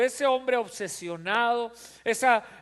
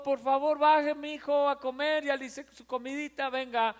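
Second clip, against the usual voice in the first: sweet coaxing mother; 4 semitones higher than usual. Retold or imitated. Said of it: "Ya no es el chiquito".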